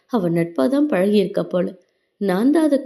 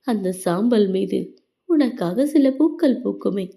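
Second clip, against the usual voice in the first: sad love poem. A narrator's reading. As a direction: recite it like a mournful verse. (மெதுவான சோகக் கவிதை வாசிப்பு)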